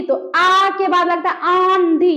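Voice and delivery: आंधी slowed, the आ resonating in the nose; teacher demonstrating a nasal vowel. Shown as a demonstration. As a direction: draw out आंधी and let the nose sound through. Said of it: "नाक में आवाज चला गया".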